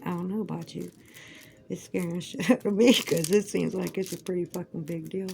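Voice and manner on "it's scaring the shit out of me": quick, louder, with a laugh breaking in; real laughing repeat; laughing through it. Real, not acted. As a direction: laugh it out fast.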